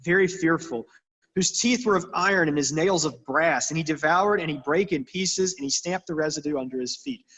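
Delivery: put-on reading the old Bible out, steady and formal; a touch of solemn King James reading; scripture reading. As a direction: read it like a lectern reading. Reads scripture passage aloud.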